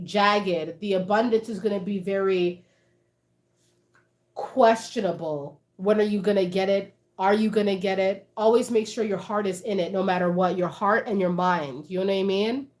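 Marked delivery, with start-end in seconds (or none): none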